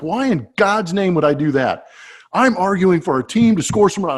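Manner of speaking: can't believe what he's hearing; incredulous manager. Retold or imitated. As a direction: manager baffled at his own player's request. Manager baffled at player, retold.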